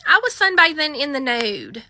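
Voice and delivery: sharp high Ma'am, then an embarrassed admission; mildly voiced caller owning up; caller confessing. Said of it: "And she's like".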